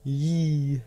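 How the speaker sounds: high silly yee; mock skeleton yell. Gamer mocking skeletons that can't aim. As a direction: squeal like a goofy skeleton. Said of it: "you're like".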